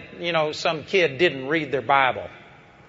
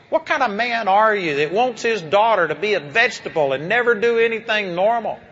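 mildly indignant challenge, rising higher toward the end; retold confrontation; 4 semitones higher than usual. Preacher challenging a disabled girl's father, retold with mild indignation. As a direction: re-enact a pointed rebuke.

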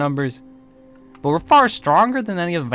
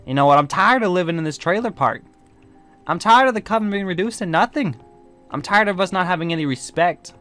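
fed-up rant, rising higher; 4 semitones higher than usual. Acted. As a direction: vent frustration at being reduced to nothing. Fed-up rant about coven's decline.

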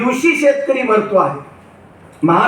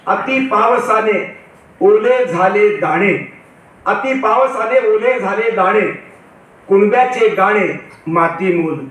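slow opening, words drawn out; deliberate, unhurried verse recital; poem recitation; slower than usual. Acted. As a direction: quote the verse with measured pauses between phrases.

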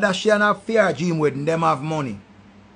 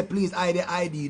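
mock plea; 3 semitones lower, 8 dB quieter than usual. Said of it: "beg and I say".

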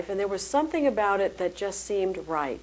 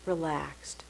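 breathy whispered word, falling; soft spa whisper; 3 semitones lower, 7 dB quieter than usual. Shown as a demonstration. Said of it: "So here's a very simple technique".

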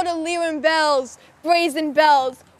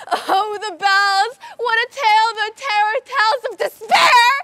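anguished cry; 4 semitones higher than usual. Acted. Dramatic cry in recited poem.

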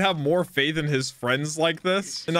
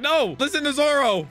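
higher-pitched imitation of scolding; mock yell; 8 semitones higher than usual. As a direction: mildly act out yelling at a friend. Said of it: "just yell at Luffy and be like".

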